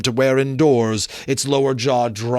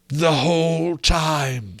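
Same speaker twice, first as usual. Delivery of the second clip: ghost lamenting; 5 semitones higher, slower than usual. Acted. Marley's ghost explaining his doom, slow wailing ghost voice. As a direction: mourn it like a doomed spirit.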